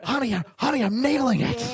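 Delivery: lightly voiced dad, laughing, pleased; dad bragging to his wife; proud dad voice. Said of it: "I like how you do my dad's voice".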